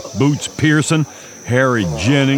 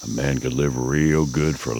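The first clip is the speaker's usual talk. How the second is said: awed whisper; 6 semitones lower, 7 dB quieter than usual. Acted. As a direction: breathe it out in wonder. Outlaw awed by the reward.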